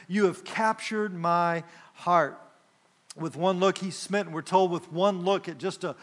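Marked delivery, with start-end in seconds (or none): 0.1-2.4 slow, gentle lover's words; tenderly. Retold or imitated. Groom telling his bride she captured his heart, tenderly. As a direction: let the words linger tenderly. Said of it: "he's speaking very tenderly".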